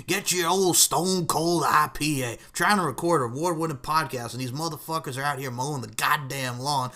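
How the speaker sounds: hammed-up cussing wrestler tirade; punchy mock podcast outburst; Stone Cold. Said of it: "He will say something legit like that".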